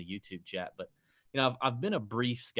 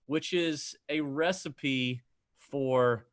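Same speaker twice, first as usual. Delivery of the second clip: put-on Boston accent. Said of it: "That wasn't bad".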